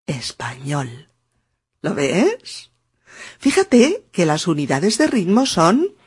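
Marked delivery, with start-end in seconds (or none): 0.1-1.1 whisper. Shown as a demonstration. Susurra la última palabra.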